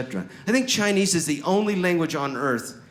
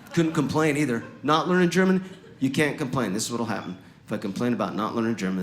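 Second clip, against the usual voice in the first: ordinary delivery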